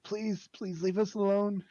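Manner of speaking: high, loud, slow begging voice; desperate pleading. Acted. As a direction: plead loudly like a frightened mother. Frightened mother begging the stranger.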